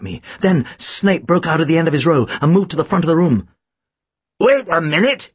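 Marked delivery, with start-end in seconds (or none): 4.4-5.3 mildly raised call; understated interrupting call. A narrator's reading. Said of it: "he called out".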